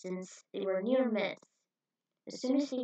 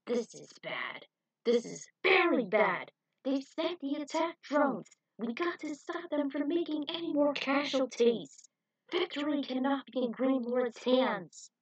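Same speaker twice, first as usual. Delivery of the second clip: slow, grave then rising alarm; worried general; 5 semitones higher, 3 dB louder than usual. Acted. General reacts to the attack drones, worried. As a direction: dread the news.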